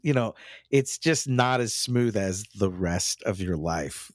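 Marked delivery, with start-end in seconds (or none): 2.5-4.1 slowed, dropped deadpan; deadpan threat. Retold or imitated. Quoting Wednesday's camp line, slow and deadpan. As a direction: let each word land slowly and flat. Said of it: "the way that that came off".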